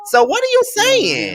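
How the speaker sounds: high, pointed mock question; sassy challenge. Real, not acted. Mocking the cast, high indignant question. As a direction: squeal it out in disbelief.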